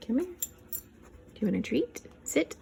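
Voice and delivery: high, loud dog call; talking to a dog. Real, not acted. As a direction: coax the dog in a sing-song. Calling and coaxing the dog.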